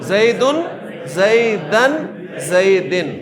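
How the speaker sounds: زیدن said three times, the last vowel moving from un to an to en; three case endings. Shown as a demonstration. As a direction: drill the endings of زیدن clearly. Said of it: "تینوں forms بول دیں گے". (زیدن کی اعرابی حالتیں واضح ادا کرنا)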